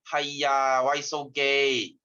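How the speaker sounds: slow, drawn-out teasing yell; hammed-up mock jeer at a helpless man; a teacher jokingly jeers at a man who can't change a bulb, in a slow mock shout.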